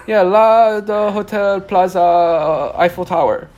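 loud, high-pitched lost tourist; hammed-up dumb American act; playing dumb American. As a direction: grope slowly for the name, acting clueless. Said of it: "a dumb American disguise".

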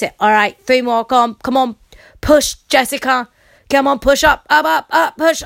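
loud, pushy gym coach voice; counting workout reps. Retold or imitated. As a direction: bark out reps like a trainer. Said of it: "with his fucking voice".

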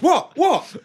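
high barking dog voice. Pretend. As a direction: bark it like an excited dog. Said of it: "And the dog goes".

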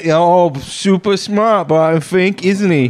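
mocking voice. Teasing Barton Fink.

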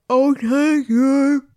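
slow, high, loud drawn out thanks; high breathless gratitude; relieved thanks. Acted. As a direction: gush with relief. Relieved woman thanks Simon.

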